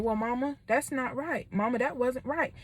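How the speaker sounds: soft, calm correction; calm child. Retold or imitated. Child calmly telling mama she was wrong, soft. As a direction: gently tell mama she's wrong. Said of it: "being calm and saying".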